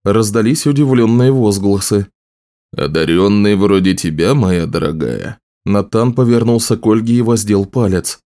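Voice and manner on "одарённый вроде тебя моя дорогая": lightly voiced gallant mentor, sinking low; courtly wizard. Wizard addressing a gifted woman, gently courtly.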